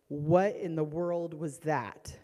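slow, emphatic bafflement; stunned disbelief. Retold or imitated. Mother retelling what her child just did, stunned disbelief. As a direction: lean hard on WHAT, appalled.

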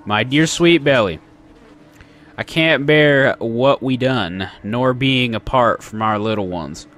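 put-on letter read in a light Southern accent; slightly Southern-accented letter reading. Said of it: "doing the southern accent".

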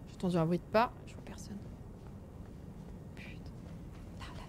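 hushed, breathy whisper; whispering while hiding. Real, not acted. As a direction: whisper so nobody hears. Sneaking, heard footsteps.

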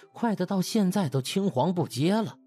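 usual speaking voice

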